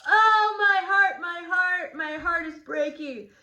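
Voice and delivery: high, loud anguished wail; a hammed-up heartbroken outcry; anguished cry. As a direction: cry out as if your heart is breaking. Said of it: "Juliet is really upset here".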